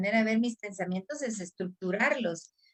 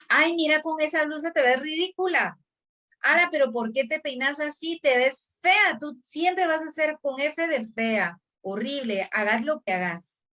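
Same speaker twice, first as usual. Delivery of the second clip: scornful adult voice; 4 semitones higher than usual. Retold or imitated. Adult from childhood mocking a girl's blouse and hair, contemptuous sneer. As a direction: belittle a little girl about her looks. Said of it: "alguien estuvo diciéndome".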